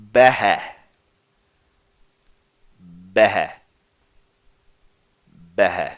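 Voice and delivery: behe with a short breathy h; breathy h starts. Shown as a demonstration. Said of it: "Yes, it's a short, breathy H".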